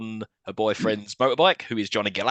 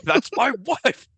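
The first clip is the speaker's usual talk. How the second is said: laughing echo; 12 semitones higher, much slower than usual. Real, not acted. Echoing co-host's quote, laughing.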